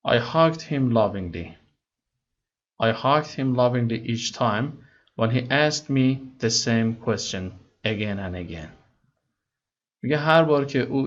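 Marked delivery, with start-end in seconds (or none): 0.1-8.7 slow, careful read-aloud of English text; slow story reading. Acted. Teacher reading the English story to students slowly. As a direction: read each word slowly for learners.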